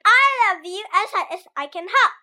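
a giggly bunny hopping; laughing little hare. Acted. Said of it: "laughed Little Nut Brown Hare".

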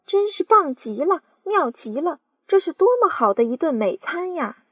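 high, loud greedy delight; greedy aunt dreaming of a meal; excited cry. Acted. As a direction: gloat over a feast. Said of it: "叫道".

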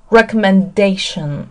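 "Recommendation" with lighter stress on "Rec", main on "da"; secondary stress first. Shown as a demonstration. Teacher models the noun for learners, "Recommendation" stressed late on "da". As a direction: say "Recommendation" with weight building to "da". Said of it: "次重音在前面哈".

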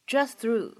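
"just through" with no release on the t of "just"; "just through" as one unit, t unexploded; incomplete plosion. Shown as a demonstration. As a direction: link "just through", holding back the final t of "just". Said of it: "会有一个不完全爆破".

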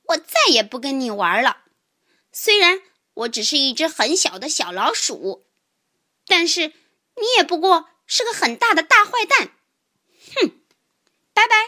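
indignant telling-off; angry outburst. Acted. Mouse ending friendship with bullying tiger, indignant. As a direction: have it out, building to a huffy goodbye. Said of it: "我气得大叫起来".

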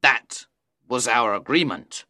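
low, firm, angry Faustus. A narrator's reading. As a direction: press the point in a deep, angry voice. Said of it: "he said angrily".

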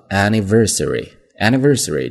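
"anniversary" with each of its five syllables sounded; many-syllable word demo. Shown as a demonstration. Teacher modelling a long word, every syllable clear. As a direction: sound out "anniversary" fully, stressing "ver". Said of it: "注意这个单词音节比较长，".

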